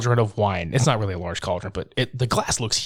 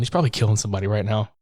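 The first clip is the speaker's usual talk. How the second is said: quick, offhand mock answer; imitated casual shrug of a line; nonchalant; 3 semitones lower, much faster than usual. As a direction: rattle it off without a care. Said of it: "Just so nonchalant".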